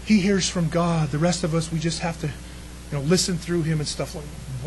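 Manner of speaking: a hint of star-struck onlookers; awed townsfolk. Townspeople marvelling at the priest, hushed and awed. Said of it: "the people would go".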